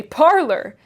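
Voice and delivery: crusty Yorkshire old man, mocking; scornful old Yorkshire servant. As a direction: scoff at the fancy word in broad Yorkshire. Joseph's dialect reply.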